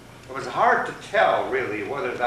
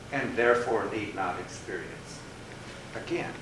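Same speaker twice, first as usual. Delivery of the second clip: mildly grand rabbit oration; lightly voiced sage rabbit; 3 semitones higher than usual.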